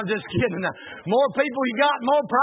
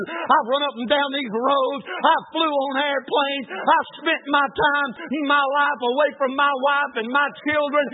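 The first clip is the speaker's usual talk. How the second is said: angry prayer; 3 semitones higher than usual. Retold or imitated. Shaking fist at God, retold.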